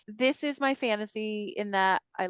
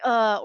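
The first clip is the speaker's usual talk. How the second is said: mock groan of regret, louder; cringing groan; 6 dB louder than usual. Recalling something embarrassing you did, loud cringing groan. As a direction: groan loudly at a cringey memory. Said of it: "you're like".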